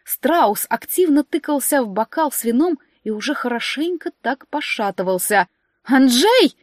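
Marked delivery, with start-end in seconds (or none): 5.8-6.6 sudden shrill shriek of alarm; panicked shriek. Acted. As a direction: shriek his name in alarm. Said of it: "взвизгнула я".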